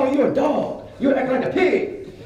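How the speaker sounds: high-pitched mock insult from an old woman; scolding old lady. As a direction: imitate a granny telling someone off. Old lady's insult translated.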